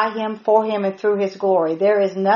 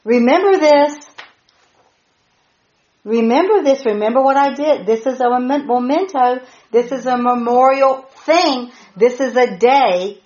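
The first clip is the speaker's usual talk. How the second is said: lightly voiced God, a touch higher; God speaking; 3 semitones higher than usual. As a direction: raise the voice slightly, as God urging the people. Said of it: "God is saying".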